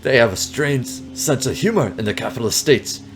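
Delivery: lightly hammed Russian accent; bad Russian accent. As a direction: remark drily in fake Russian. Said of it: "that is a very bad Russian accent".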